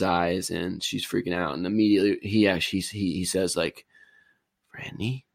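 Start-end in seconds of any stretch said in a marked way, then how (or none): 4.7-5.2 weak, raised, softer rasp of a man just out of a coma; a badly done coma patient calling Franny; horrible impression of waking patient. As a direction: croak her name like you just woke from a coma. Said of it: "that was the horrible impression".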